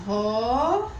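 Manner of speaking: "Romeu" split in two, first syllable long and rising, then a pause. Shown as a demonstration. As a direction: stretch and separate the syllables of "Romeu". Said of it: "Vamos separar". ("Romeu" separado em sílabas, bem alongado)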